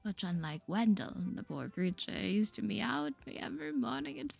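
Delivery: lightly British character voice; a little British. Acted. Miss Anderson chats about her cat, a little British. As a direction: slip into a slight British accent. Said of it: "I don't know why her accent suddenly is, like, a little British".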